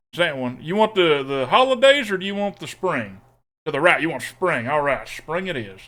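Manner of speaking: playful put-on southern twang; southern accent. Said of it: "Making me pick a sleeve in the accent's".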